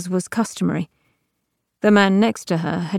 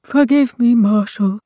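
humble; 3 semitones higher, 5 dB louder than usual. A narrator's reading. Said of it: "said Ortus humbly".

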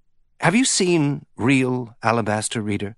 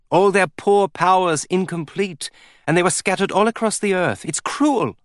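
high, tearful pleading; 6 semitones higher than usual. A narrator's reading. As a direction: plead through tears, rising. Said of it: "all tears".

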